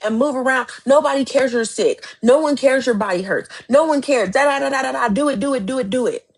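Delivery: a mild imitation of cruel self-talk; harsh self-scolding. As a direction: berate yourself, not quite in full earnest. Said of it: "I have tried to cuss myself through some stuff".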